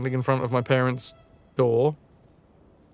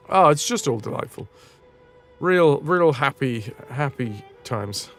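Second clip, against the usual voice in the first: sarcastic delight. Acted. Streamer recalling grim childhood as lovely, sarcastic delight.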